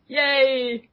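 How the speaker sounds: put-on a kid whose fan art got posted, high and giddy; childish triumph. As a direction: cheer like a kid who pulled it off. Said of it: "And it's like".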